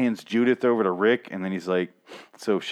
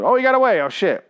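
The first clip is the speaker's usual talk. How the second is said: much higher, louder dopey yelp; mock surprise; 10 semitones higher, 6 dB louder than usual. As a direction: gasp like a clueless guard. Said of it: "And, uh".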